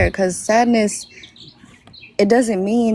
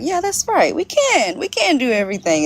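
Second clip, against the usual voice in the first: much higher, bright can-do burst; self pep talk; 6 semitones higher than usual. Retold or imitated. A mother rallying herself for her kids, upbeat and eager. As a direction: psych yourself up. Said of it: "recenters me to, like".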